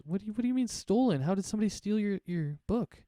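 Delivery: disbelieving. Acted. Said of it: "Cadril kinda is".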